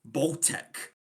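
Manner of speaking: "Baltic" in a Scottish accent, voiced like "Poltec"; Scottish accent on the word Baltic. Shown as a demonstration. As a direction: say Baltic like a Scot. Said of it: "You kinda have to say that as a Scottish person".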